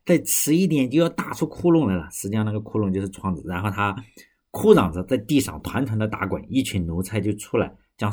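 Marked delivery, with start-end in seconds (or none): 0.0-2.1 high, louder cry for help; hammed-up shout for help, voice pitched up; calling for help. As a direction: raise the alarm about the robbers. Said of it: "他就在这里喊".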